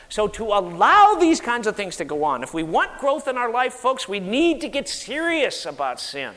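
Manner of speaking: real preacher's urgency; worked up. Real, not acted. Preacher urging folks to get serious about sin, worked up. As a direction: press the point, getting worked up. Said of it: "I'm getting worked up now".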